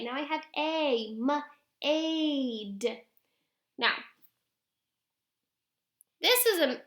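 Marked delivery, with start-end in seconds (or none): 1.2-3.0 "m-aid" split into "muh" and stretched "ayd"; sounding out. Shown as a demonstration. Teacher blends the long A word, drawn out. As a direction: hold the long vowel in "m-aid". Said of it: "now a long A".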